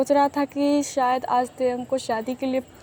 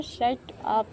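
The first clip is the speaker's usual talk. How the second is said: softer, bashful brush-off; shy blush; 6 dB quieter, much slower than usual. Acted. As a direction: mumble it shyly, embarrassed. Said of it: "तेहंग blush करता है और बोलता है". (शर्माते हुए धीमे से)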